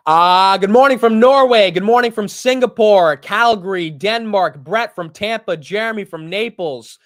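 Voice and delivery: loud, high roll call, easing slightly by the end; calling out greetings. Real, not acted. Host reads out viewers' hometowns on the livestream, calling out. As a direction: belt out each viewer's location.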